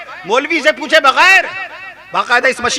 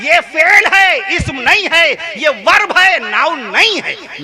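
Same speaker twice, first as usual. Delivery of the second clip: 1 emphatic earlier warning; 5 semitones higher, slower than usual. Retold or imitated. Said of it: "मैंने बहुत अरसा पहले कहा था".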